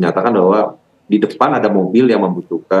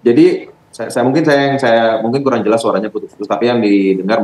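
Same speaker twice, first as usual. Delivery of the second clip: raised voice over bad line; 4 semitones higher than usual. Real, not acted. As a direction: speak up on a breaking call. Bad phone line, calling out. (suara dinaikkan karena sambungan putus)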